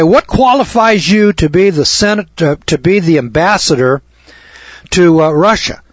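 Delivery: acted senator questioning. Senators question an ambassador nominee at a hearing, mildly challenging. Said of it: "bring him in to this Senate hearing".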